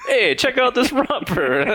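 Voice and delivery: high, loud Brooklyn guy; hammy Brooklyn bravado; brooklyn accent. Retold or imitated. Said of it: "the last accent that you could imagine".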